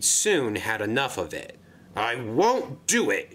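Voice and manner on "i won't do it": slow, sullen grumble; grumbled. Acted. Sixteen grumbling a refusal at the dairy manager, slow and sullen. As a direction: refuse it grudgingly. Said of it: "he grumbled".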